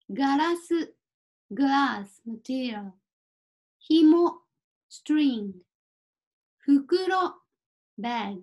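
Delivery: careful word-by-word language model; measured bilingual word-list delivery; vocabulary drill reading. Shown as a demonstration. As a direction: read each item out for learners, with pauses. Reads out vocabulary list with translations.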